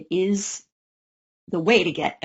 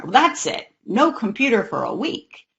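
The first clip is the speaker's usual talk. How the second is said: mock threat; 2 semitones higher than usual. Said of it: "or I might start threatening".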